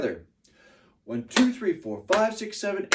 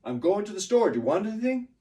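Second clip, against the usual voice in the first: higher, GOING, STORE and WANT stressed, "anything" lifted; lively question, weight on GOING, STORE and WANT; stressed-word question; 7 semitones higher, 4 dB louder, faster than usual. Shown as a demonstration. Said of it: "those are the stressed words in that sentence".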